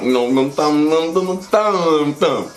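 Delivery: rhythmic drawn-out thumping noises; comic sound-effect chant; imitated thumping. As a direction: slowly mimic a repeated thump.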